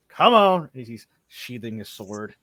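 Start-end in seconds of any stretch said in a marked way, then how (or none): 0.1-0.7 loud, higher-pitched call; impatient summons. Acted. Ranger urges the orc over, loud raised call. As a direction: call out sharply to a comrade. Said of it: "He's like".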